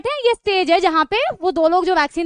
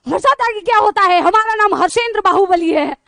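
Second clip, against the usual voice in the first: mock angry; 3 semitones higher, 5 dB louder than usual. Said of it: "एकदम गुस्से में गए".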